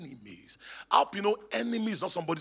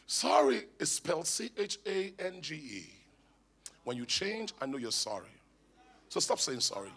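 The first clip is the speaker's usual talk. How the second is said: imitated American accent; 2 semitones lower, 5 dB quieter than usual. Wife telling husband to stop saying sorry, imitated American accent. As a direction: lightly imitate a serious American speaker, softly. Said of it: "she speaks American".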